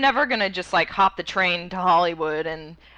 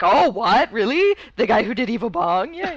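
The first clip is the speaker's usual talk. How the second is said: excited; 5 dB louder than usual. Retold or imitated. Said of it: "I was like".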